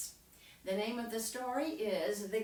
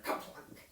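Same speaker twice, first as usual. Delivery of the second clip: voiceless plop; hushed sound-effect word; short daughter's kaplunk. Shown as a demonstration. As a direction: drop it like a stone. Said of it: "so you go".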